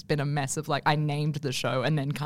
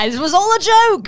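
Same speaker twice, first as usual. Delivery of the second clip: laughing it off; 12 semitones higher, 11 dB louder than usual. Pretend. Mocking the avoidant comic.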